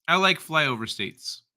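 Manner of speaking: put-on slow, drawn-out Valley girl. Host rereading a chat comment, slow Valley girl voice. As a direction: read it as a mock Valley girl. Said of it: "read that like a Valley girl".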